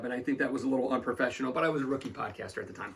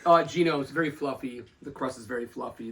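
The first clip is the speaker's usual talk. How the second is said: mouth full. Real, not acted. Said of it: "Let me ask you with your mouth full".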